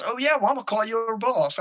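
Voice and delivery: retold indignant comeback; mock threat. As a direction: taunt like someone threatening to tell on you. Imitating homeowner's threat in quarrel.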